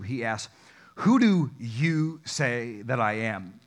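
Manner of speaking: measured, formal Bible reading; scripture reading. Acted. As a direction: read the passage aloud to the congregation. Reads scripture passage aloud.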